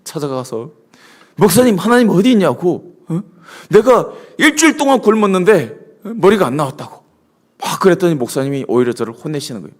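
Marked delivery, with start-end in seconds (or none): 1.4-7.0 retelling a raised, indignant protest; half-playful outrage at the pastor; mock angry complaint. Hungry young man protesting to his pastor, mock angry. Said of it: "막 너무 화가 나는 거예요".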